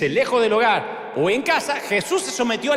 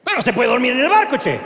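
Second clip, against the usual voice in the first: grumble; 5 semitones higher, 4 dB louder than usual. Acted. Grumbling Jesus woken up.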